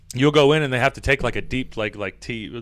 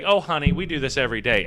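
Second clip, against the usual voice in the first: comforting nurse; 4 semitones lower, 5 dB quieter, faster than usual. Retold or imitated. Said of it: "nice and, like, comforting".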